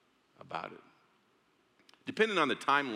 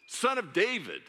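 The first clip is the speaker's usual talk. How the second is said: high, loud cry across a crowd; calling out; 12 semitones higher, 4 dB louder than usual. Acted. Blind beggar calling out to Jesus, high loud cry. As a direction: shout for Jesus over the crowd. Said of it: "He called out".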